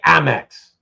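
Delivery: "Amex" with a short "a" as in "am"; Canadian way. Shown as a demonstration. Answering Dan on how Canadians say Amex, a short "a". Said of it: "We say".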